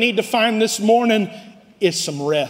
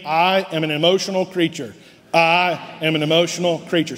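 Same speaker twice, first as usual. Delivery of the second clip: said together as a call and response; congregation recitation. Shown as a demonstration. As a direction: lead the room in a steady declaration. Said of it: "Say it with me".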